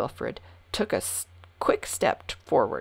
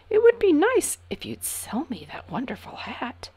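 pleased, higher and bright; smiling; 8 semitones higher, 4 dB louder than usual. A narrator's reading. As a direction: smile through the request. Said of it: "smiled the king".

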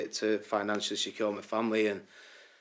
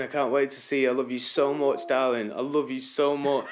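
excited declaration; 4 semitones higher, 3 dB louder than usual. Real, not acted. Calling out to fiancée on TV.

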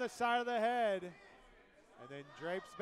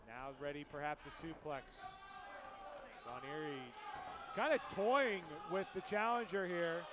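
live play-by-play call; wrestling commentator. Real, not acted. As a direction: call the match as it happens. Calls the match live.

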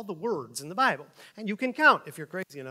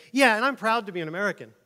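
mock proud patriot; 5 semitones higher, 6 dB louder, faster than usual. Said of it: "turn right around and say".

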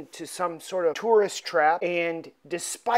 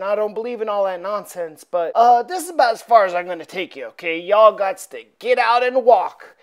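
put-on nervous old coachman; 5 dB louder, faster than usual. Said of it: "is telling Frank and his companions".

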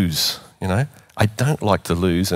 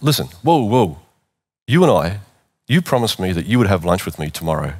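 firm and determined. Retold or imitated. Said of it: "I was perhaps a bit loud".

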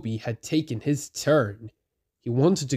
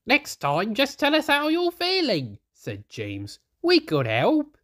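James voice; 12 semitones higher than usual. A narrator's reading.

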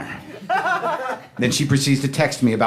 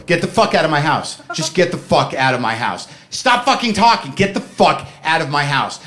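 mock angry; 2 semitones higher than usual. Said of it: "Me at the door".

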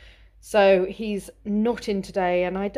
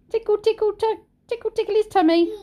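giggly tickle attack; 12 semitones higher, 3 dB louder, faster than usual. Acted. Tickling baby, baby talk.

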